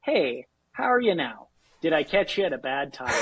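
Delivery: folksy Canadian sales-call greeting; Canadian accent, played up for charm. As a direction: charm them with a Canadian lilt. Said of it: "think that we're an Irishman".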